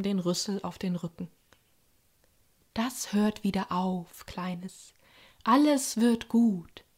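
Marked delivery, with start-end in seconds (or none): 2.7-6.8 calm the hurt little one gently; soothing. Acted. Grey lady comforting the burnt Bakira, slow and soothing. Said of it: "sagte sie besänftigend".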